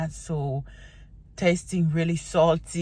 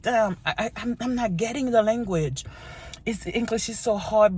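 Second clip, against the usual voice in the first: higher, mildly exasperated imitation; mock frustrated learner; 5 semitones higher than usual. Imitating people learning English, mock frustration. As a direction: lightly voice a struggling learner's complaint. Voicing discouraged language learners.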